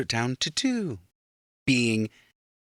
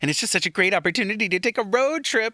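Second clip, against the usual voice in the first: mock enthusiastic; 10 semitones higher, 3 dB louder, faster than usual.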